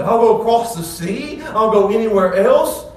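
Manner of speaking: rising to an eager loud call; bold proclamation. Retold or imitated. Mister Hasty declaring to Jesus, bold eager call. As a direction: declare it, ready to go. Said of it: "boldly proclaims it".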